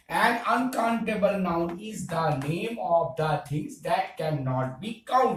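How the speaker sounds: very slow, word by word English definition; slow classroom dictation. Shown as a demonstration. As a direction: dictate it slowly so students can write. Teacher dictates definition slowly.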